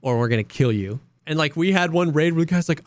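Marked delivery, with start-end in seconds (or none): 0.0-1.0 low deadpan mock threat; a hint of menace. Friend imitating Geeks threatening a stranger, low and deadpan. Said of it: "He's like".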